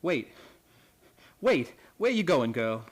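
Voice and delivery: loud high shout after her; calling out. Real, not acted. Old man shouting after the girl leaving, loud and high. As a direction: call her back as she runs off.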